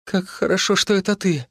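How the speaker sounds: high, jittery relieved wife's voice; high nervous babbling wife; nervous chatter. Acted. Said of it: "затараторила она нервно".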